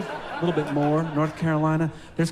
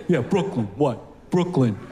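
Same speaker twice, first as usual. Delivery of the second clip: put-on tough Brooklyn accent; 5 semitones lower than usual. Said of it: "Brooklyn's a little more tough".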